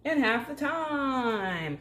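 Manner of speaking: a hint of a game show host, slow and emphatic. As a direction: sell it like a TV host. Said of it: "Sound like a game show host".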